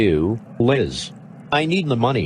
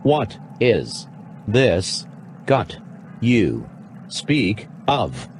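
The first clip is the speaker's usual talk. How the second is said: robot voice; much slower than usual. Acted. Actor plays robot.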